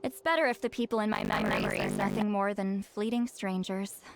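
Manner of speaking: put-on old soul mourning loved ones who wither; melancholy reflection. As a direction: speak of lost friends like fading flowers. Melancholy monologue.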